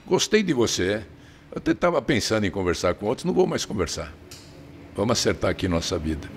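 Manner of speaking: lightly imitated Italian accent; Italian-accented Portuguese, mild. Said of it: "aquele sotaque italiano". (imitando sotaque italiano)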